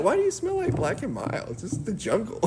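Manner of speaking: put-on high, soft voice; mock Jane voice. Jane asks swinging Tarzan about his smell, mock high voice. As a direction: play Jane in a high, light, questioning voice.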